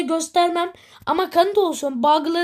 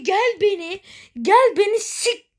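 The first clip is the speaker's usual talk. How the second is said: frustrated rant; 5 semitones higher than usual. Real, not acted. Quoting the taunting game.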